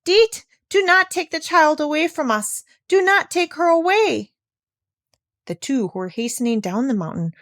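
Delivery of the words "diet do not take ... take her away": much higher, louder pleading shout; beseeching call. A narrator's reading. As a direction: call out the window, begging. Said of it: "called out beseechingly".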